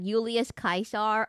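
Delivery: Julius said Yoo-lee-us, Caesar as Kai-sar; Latin pronunciation. Shown as a demonstration. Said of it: "That's how you say it".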